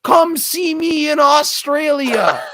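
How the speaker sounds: high, slow shouted dare; imitated aggressive challenge. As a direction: imitate an angry friend calling someone out. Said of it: "aggressive? Jed starts going".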